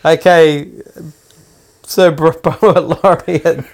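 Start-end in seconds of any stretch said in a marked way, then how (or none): 1.8-3.6 laughing stumble. Real, not acted. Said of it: "It's easy for you to say".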